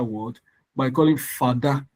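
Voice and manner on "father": father said "fadá", rising at the end; wrongly tonalized father. Shown as a demonstration. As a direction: put d and a raised tone in father. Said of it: "which is wrong".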